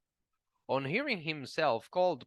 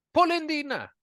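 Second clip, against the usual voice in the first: taunting shout; 12 semitones higher, 6 dB louder, faster than usual. A narrator's reading.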